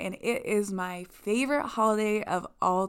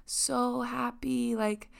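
high, soft gushing admirer; gushing fan; 5 semitones higher, 4 dB quieter than usual. Retold or imitated. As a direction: coo over her like an awed friend. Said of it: "people often ask and assume".

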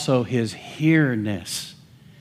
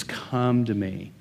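gentle Jesus quote; 4 semitones lower than usual. Retold or imitated. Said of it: "Jesus says".

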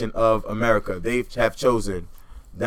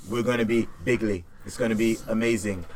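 lightly voiced Trump boast, barely off his own voice; a hint of Trump bragging to a crowd; Donald Trump voice; 4 dB quieter than usual. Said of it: "my best Donald Trump, uh, impression".

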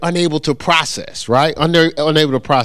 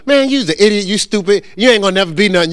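higher-pitched acted put-down; mock insults; 5 semitones higher, faster than usual. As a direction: play a person running somebody down. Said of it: "Somebody comes up to you and go".

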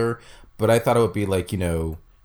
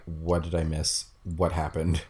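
dazed confusion; 5 semitones lower, 4 dB quieter, slower than usual. Retold or imitated. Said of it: "probably thinking".

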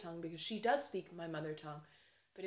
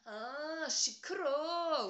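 loud, higher-pitched whiny complaint; whining; 7 semitones higher, 7 dB louder, slower than usual. Retold or imitated. Korean household grumble picked up by the daughter, loud whine. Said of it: "make these whining sounds in Korean".

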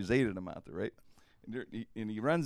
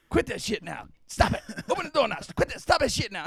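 high, loud, panicked demands; frantic yell; 10 semitones higher, 5 dB louder than usual. Retold or imitated. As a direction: yell at him to quit it, desperate. Locked out, begging Terry.

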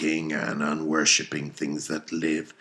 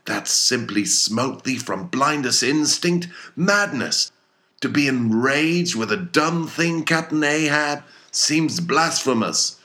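much higher, loud protesting cry; cried out; 11 semitones higher, 6 dB louder than usual. A narrator's reading. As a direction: hurl it back at the captain in alarm. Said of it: "cried Starbuck".

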